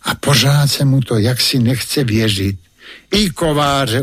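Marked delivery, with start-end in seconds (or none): 3.1-4.0 gentle amused nod in the voice; smiling reply. Acted. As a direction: calmly assure the boy it's true. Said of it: "usmál se ten nenápadný pán".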